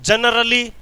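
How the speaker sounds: लहजा बदलकर generally; pronunciation variant. Shown as a demonstration. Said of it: "generally बोला चाहे generally बोला".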